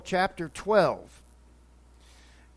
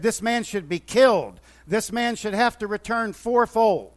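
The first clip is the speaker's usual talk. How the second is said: outraged; 3 dB louder than usual. Retold or imitated. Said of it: "David became outraged".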